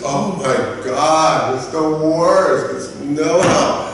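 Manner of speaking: slow, drawn-out dismay; dramatic complaint. Acted. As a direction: drag each word out in mock dismay. Mock customer complaint.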